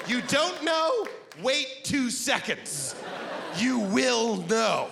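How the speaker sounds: high, slow, gloating; smug know-it-all. Acted. Google on the phone, smug to the audience, high and slow. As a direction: lord it over someone who doesn't know.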